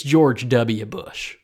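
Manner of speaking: slow, drawled Texan George W; lightly mock Southern Texan drawl, Bush fading to a breath; a hint of Texan Southern accent. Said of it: "without doing it in the accent".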